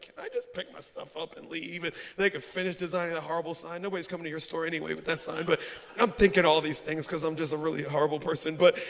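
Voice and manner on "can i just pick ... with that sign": low, muted impatient thoughts; irritated inner grumble. Retold or imitated. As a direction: grumble to yourself, low and quickening. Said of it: "I'm a little irritated".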